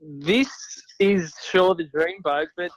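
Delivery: faint, off the mic; talking away from the phone; phone held away. Real, not acted. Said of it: "It's his phone".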